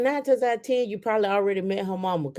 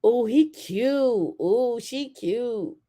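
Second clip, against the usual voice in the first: put-on teasing kids; 4 semitones higher, much slower than usual.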